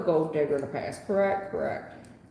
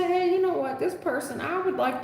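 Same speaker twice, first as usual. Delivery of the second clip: light mock client voice, pitched up; imitating Raymond; 9 semitones higher than usual. Reader mimicking Raymond wanting his ex back, pitched up. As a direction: lightly play him as he'd say it. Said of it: "Maybe you say".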